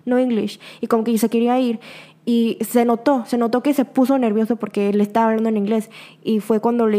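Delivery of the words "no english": slow, hesitant mock "no English"; a hint of a flustered boyfriend, slow; imitating nervous boyfriend. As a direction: lightly play the nervous shy guy backing off. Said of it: "así súper nervioso".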